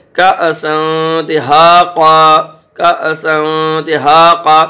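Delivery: کأسا broken by a sharp catch after "ka"; glottal jolt. Shown as a demonstration. Teacher showing the class the silent hamza, glottal jolt. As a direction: recite کأسا with a jolt on the hamza, then long "haa". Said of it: "یہاں جھٹکا لے گئے".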